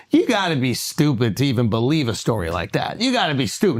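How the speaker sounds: slow, weighty put-down; deliberate mock scorn; drawn-out dismissal. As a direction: lean on every word like a scolding. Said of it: "Now, he don't say it in that".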